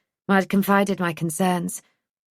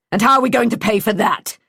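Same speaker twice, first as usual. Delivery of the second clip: sarcastic; 4 semitones higher, 5 dB louder than usual. A narrator's reading. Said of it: "His words dripped with sarcasm".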